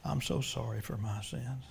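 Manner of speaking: humble prayer. Real, not acted. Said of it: "I'm gonna pray that prayer myself".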